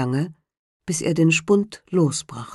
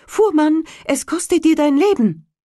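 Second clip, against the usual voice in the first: high, loud bird voice threatening; menacing sparrow; 11 semitones higher, 5 dB louder than usual. A narrator's reading. Sparrow threatening the carter's life, high and loud. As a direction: warn him like a vengeful bird.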